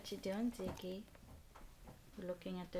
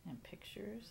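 whispering; 2 semitones higher, 6 dB quieter than usual. Real, not acted. Parent whispers.

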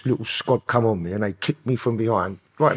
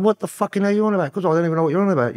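indignant retort; 5 semitones higher, faster than usual. Retold or imitated. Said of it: "I was going".

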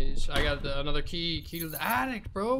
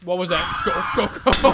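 scared horror game streamer; 4 semitones higher, 12 dB louder, faster than usual. Real, not acted. Sudden monster scare.

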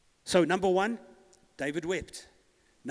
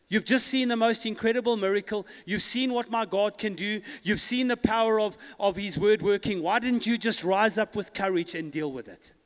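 raised, emphatic pulpit voice; impassioned preaching; 4 semitones higher, 5 dB louder than usual. Acted. Preacher challenging the church over their lack of courage, impassioned. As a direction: drive each phrase home to the congregation.

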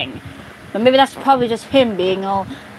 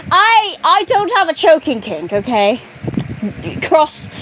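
put-on Dream British accent; 4 semitones higher than usual. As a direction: play Dream scolding Cross in a British accent. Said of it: "let me try my Dream British accent again".

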